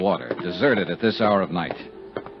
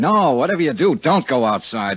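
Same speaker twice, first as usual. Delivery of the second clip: raised, urgent order, pitched up and louder; urgent command; 5 semitones higher, 3 dB louder than usual. Acted. Johnny urging Maria on the phone, raised and urgent. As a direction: insist hard that she stay put.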